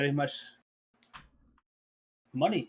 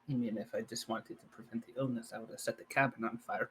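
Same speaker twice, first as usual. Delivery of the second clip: whisper; 4 semitones lower, 6 dB quieter than usual. Acted. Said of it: "I'll whisper".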